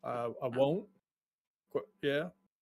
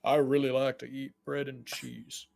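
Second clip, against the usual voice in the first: attempted dwarf voice. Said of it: "my dwarf voice".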